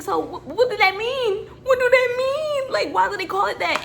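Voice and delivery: high pleading questions through laughter; asking while cracking up, near tears; laughing questions. Retold or imitated. Retold confused question to coworker.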